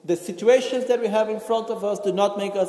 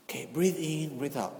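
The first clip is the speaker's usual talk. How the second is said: softer repeat of the breathing cue, fading away; calming breathing cue; 3 semitones lower, 9 dB quieter than usual. Shown as a demonstration. Teacher repeats the cue to the resisting person: soft coaxing. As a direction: coax them gently to breathe. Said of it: "I look to the person talking to me and I say".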